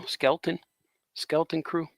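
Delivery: "Skeleton" run together as SKEL-tin; run-together pronunciation. Shown as a demonstration. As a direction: say "Skeleton" in two quick syllables, skel-tin. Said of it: "you get to say it faster".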